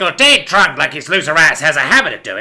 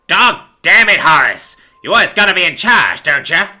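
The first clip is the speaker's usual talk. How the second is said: loud, higher exasperation; fed up and complaining; exasperated sigh; 6 semitones higher, 7 dB louder than usual. A narrator's reading. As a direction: gripe at your bossy partner. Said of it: "sighed Patrolman Pig".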